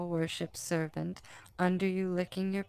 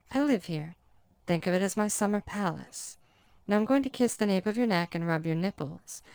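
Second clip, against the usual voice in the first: succubus. Acted. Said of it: "says the succubus from above you".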